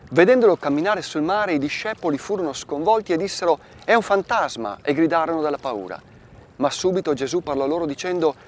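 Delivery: measured liturgical reading of scripture; Gospel reading. Acted. Priest reading Matthew to listeners, solemn. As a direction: read the Gospel aloud to the faithful. Reads Gospel passage aloud.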